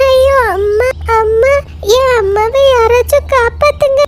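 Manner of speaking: high, desperate little lamb calling mother; frightened child's plea; panicked cry for help. Acted. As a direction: call out in panic for mum. Lamb cries for drowning mother.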